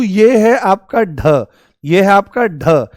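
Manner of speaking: ढ as a breath-released retroflex stop, slowly shown; hard aspirated ढ. Shown as a demonstration. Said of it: "और ये पढ़ा जाएगा अढ़". (बिना नुक्ते वाला महाप्राण ढ, धीरे)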